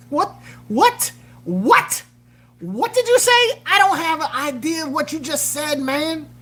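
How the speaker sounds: high, loud baffled questions; mock confusion. Streamer acting out not understanding Dominicans, high baffled voice. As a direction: act totally lost. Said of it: "When Dominicans get all wound up".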